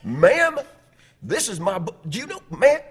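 exasperated high, loud sputtering; going off on someone. Retold or imitated. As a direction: shout over her in mock outrage. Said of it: "he just went off on her".

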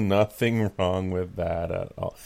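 mock approval in a level voice; sarcastic. Real, not acted. Co-host joking about an unhealthy couple of figures, sarcastic. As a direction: approve it while meaning the opposite. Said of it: "that was sarcasm for people out there".

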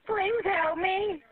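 very slow, broken by sobs; sobbing plea. Real, not acted. Drowning driver begging dispatcher, slow and sobbing. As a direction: beg for help through crying.

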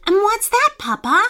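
put-on high, eager little boy asking fast; can't wait to hear the news; impatient child voice. A narrator's reading. Young fox presses his father impatiently, high and eager. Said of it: "asked Charlie impatiently".

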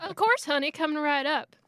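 high, friendly barmaid voice; chirpy bartender greeting. Acted.

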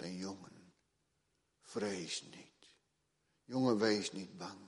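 put-on calm the frightened boy like a father; fatherly comfort. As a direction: prophet gently comforting his servant. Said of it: "die vaderlijke liefde".

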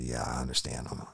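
barely voiced, whispered reply; nervous whisper. Suspect whispering to the officer, nervous whisper. Suspect answers during questioning.

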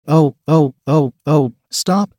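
a character's loud read-aloud scream. A narrator's reading. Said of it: "Beth screamed".

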